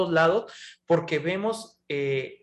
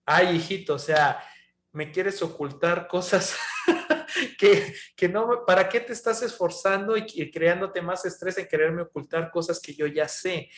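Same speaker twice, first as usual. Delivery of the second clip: amused, chuckling fond voice; God laughing. Retold or imitated. God teasing a child who hides things, chuckling. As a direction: laugh through it fondly. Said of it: "Dios se ríe y diciendo".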